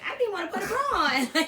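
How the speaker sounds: high, quick, laughing through the words. Real, not acted. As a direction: giggle it out fast. Laughing about side effects.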